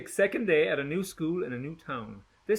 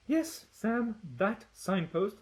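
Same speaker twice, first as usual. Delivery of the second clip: weary sigh; 7 semitones higher, 4 dB quieter, slower than usual. A narrator's reading. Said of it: "sighs Gretchen".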